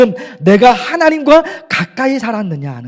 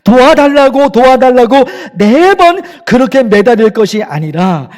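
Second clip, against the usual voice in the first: a firmer, louder voice of God pressing the question; God's stern challenge; 4 dB louder than usual. Retold or imitated. Pastor voicing God challenging the desperate believer, stern and loud. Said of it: "하나님이 그러신단 말입니다".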